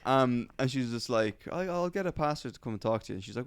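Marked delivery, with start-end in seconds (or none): 1.5-3.2 lightly voiced American auntie, a little higher; hint of American accent, imitated. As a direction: reassure in a put-on American accent. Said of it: "giving her an American accent".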